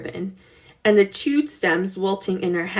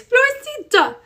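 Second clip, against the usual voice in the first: voiced, higher and sharp, furious at the goat; ferocious hiss; 3 dB louder than usual. Girl scolds the goat that ate her flowers, furious. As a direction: spit the goat's name out in fury. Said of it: "she hissed in a ferocious whisper".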